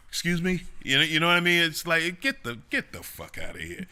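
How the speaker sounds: high, loud, incredulous retort; loud, exasperated dismissal; indignant outburst. Real, not acted. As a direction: blow up at the hypocrisy. Scornful retort to fake outrage.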